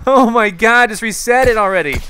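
loud, high-pitched desperate yelling; freaking out. Real, not acted. Gamer begging team to reset it, freaking out. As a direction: shout the same order at the team in real panic. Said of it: "I'm really freaking out".

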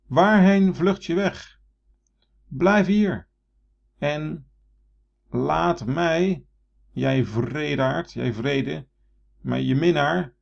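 high, loud, slow anguished plea; Narcissus calling out. Shown as a demonstration. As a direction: cry out to the fleeing reflection. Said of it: "riep hij".

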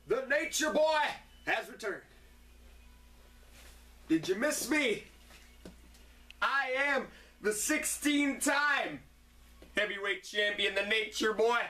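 a lightly voiced boastful wrestling champ; hint of a swaggering wrestler promo; Ric Flair impression. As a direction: strut through it like a cocky champion. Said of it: "Ric Flair would break into my house".

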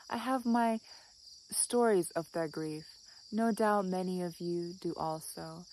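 measured reading with pauses between phrases; poem reading. Acted. Vlogger reads Mary Oliver quote on dogs' short lives, measured recital. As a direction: read it out reflectively, phrase by phrase.

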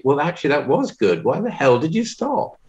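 mock exasperation, pitch climbing high; indignant director, voice rising to the question; cross director. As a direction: imitate a director cross at a stopped take. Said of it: "the director will get very cross".

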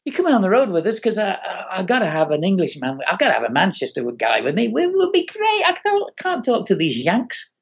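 imitated pleading Mancunian pal; a singer. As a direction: talk a mate into it, as an impression. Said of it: "he just turns to me and says".

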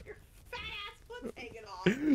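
high, loud teasing yell; laughing yell. Real, not acted. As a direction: tease him, loud and slow. Teasing friend, being seen.

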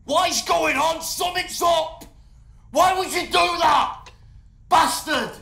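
high, loud enraged shout; furious outburst. Acted. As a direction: explode at someone who betrayed you. Guest explodes at host's betrayal.

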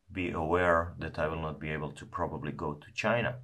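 talking around a mouthpiece; cigar holder in mouth. Real, not acted. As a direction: lips partly held on stem. Seen 3: Hand holds cigar holder, mouthpiece resting at mouth corner while talking.

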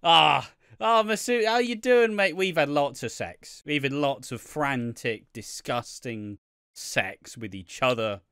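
mock David gloating. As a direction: ham up a gloating lover. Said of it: "just like".

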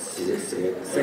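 食 dropped very low and soft; short, low, quiet 食; pushed downward. Shown as a demonstration. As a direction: sink each 食 down into the low register. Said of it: "你得往下".

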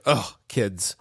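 a lightly voiced dog, low and weary; grumpy dog. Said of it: "He's like".

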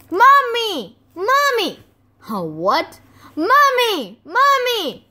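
high, loud chick cries; peeping baby chick. Acted. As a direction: squeal like a newborn chick. Newly hatched chicks calling.

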